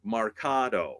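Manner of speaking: "marcato" as mar-KAH-doe, long stressed KAH, falling end; model pronunciation. Shown as a demonstration. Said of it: "where I would say".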